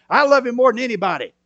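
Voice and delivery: loud boastful claim, lifted high; bragging. Retold or imitated. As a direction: boast it to everyone. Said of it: "That's what he bragged about".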